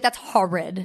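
dismissive That's horrid; hard R on horrid; mock disdain. Shown as a demonstration. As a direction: deliver it like a verdict. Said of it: "the way you say it".

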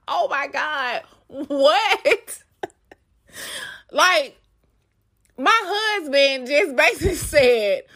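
high, laughing oh my God; laughing disbelief. Retold or imitated. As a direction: burst out in shocked laughter. Shocked at husband's email.

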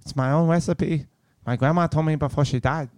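mock Asian accent. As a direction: upsell in a put-on Asian accent. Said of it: "I don't know what accent that was".

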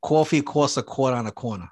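a demonstration of a New York accent. Shown as a demonstration. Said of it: "he wants me to say".

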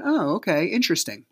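dry knowing "oh, okay, interesting"; eye-rolling sarcasm. Retold or imitated. Father hearing of the new man, eye-rolling and sarcastic. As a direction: say it like rolling your eyes. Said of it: "I'm rolling my eyes".

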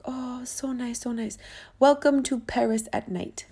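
gentle, whispered welcome; soft mock driver. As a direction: hush it like a late-night welcome. Driver's gentle reply at midnight.

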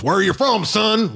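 mocking laugh. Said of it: "and goes ... Like, laughing".

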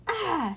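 short high-pitched shriek; high mock shriek of shock. A narrator's reading. Ruby gets sprayed in the face, high shriek. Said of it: "shrieked Ruby".

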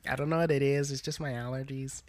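put-on whispered nasal teen excuse; nasal clerk voice.

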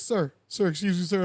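lightly voiced official trying to get someone's attention; insistent flight attendant. Flight attendant to passenger looking down, politely insistent.

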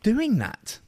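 slow, hissed whispered hush; shushing partner during the show in a slow whisper. Retold or imitated. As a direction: hush her sharply under your breath. Hushing partner's sniffing.

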